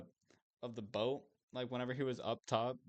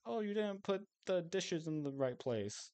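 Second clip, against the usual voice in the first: higher, mock-whiny nag about chores; nagging partner; 8 semitones higher than usual. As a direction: imitate a bickering partner's complaint. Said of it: "they'll argue over".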